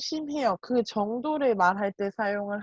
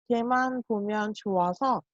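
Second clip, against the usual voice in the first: slow model sentence. Shown as a demonstration. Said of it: "이렇게 이야기합니다".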